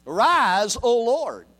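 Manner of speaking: loud, high call of Arise; battle cry. Shown as a demonstration. Preacher voicing David's battle cry to God. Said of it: "This is a battle cry language".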